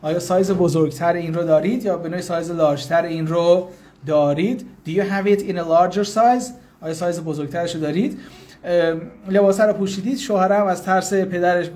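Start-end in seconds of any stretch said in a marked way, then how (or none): 4.9-6.4 slow, carefully spaced English; slow teaching demo. Shown as a demonstration. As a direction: spell it out slowly for learners. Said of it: "teacher repeats phrase for learners".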